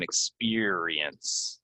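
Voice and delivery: "experience" slowly as ek-SPEER-ee-ence; careful pronunciation. Shown as a demonstration. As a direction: stretch out the middle of "experience".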